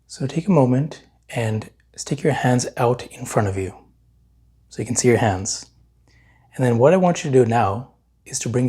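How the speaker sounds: unhurried meditation guide, long pauses between phrases; guided meditation. Real, not acted. Meditation teacher leading listeners to notice their hands, calm guiding voice. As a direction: guide them calmly, leaving long silences to feel.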